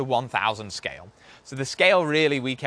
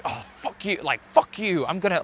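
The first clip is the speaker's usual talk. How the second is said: mild self-directed anger, pitched up; pissed off; 4 semitones higher than usual. Acted. Speaker swearing at his fear before approaching a girl, pissed off. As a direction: curse your own fear, fired up. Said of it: "you get fucking pissed off".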